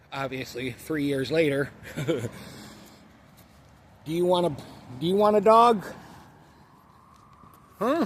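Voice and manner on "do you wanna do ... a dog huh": asking the dog if he wants a dog, high and excited; excited talk to dog. Real, not acted. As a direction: pitch it up and gush at the dog. Talking to the dog.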